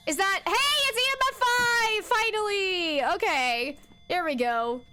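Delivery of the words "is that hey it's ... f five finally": high excited outburst over the reading. Real, not acted. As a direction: cheer it out, relieved at last. Finally gets EMF five.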